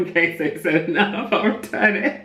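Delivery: comic high-pitched resignation; mock defeated squeak. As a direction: squeak it out like giving up. Retelling reply to friend, mock high.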